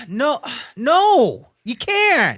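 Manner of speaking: high, loud retold refusal; exasperated refusal. Refusing the pestering kids.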